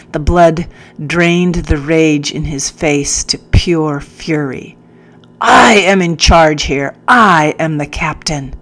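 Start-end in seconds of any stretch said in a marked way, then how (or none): 5.4-8.5 loud, angry assertion of rank; furious captain. Acted. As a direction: pull rank with fury. Captain asserts command angrily.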